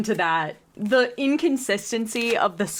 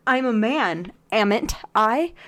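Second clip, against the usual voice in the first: put-on Scottish book hero; Scottish accent. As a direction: quote him in a rough Scottish accent. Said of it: "version of a Scottish accent".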